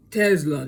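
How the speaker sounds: "Tesla" said slowly as "Tezla", with a z sound; mock the wrong "Tesla", buzzing a z in the middle; mispronounced Tesla. Vlogger mocking how the Rat says Tesla, slow "Tezla" with a z. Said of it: "that's exactly how he says his name is".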